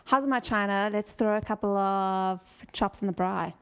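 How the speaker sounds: lightly pushed South African lilt; South African accent. Shown as a demonstration. Gives the friend a South African line to copy, South African accent. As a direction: model a South African phrase. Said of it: "Okay, so say".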